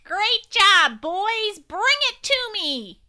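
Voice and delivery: high, loud shout of praise. A narrator's reading. Agent Tissue praising the boys, shouting. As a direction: cheer them on, then call them over. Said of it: "Agent Tissue clapped and shouted".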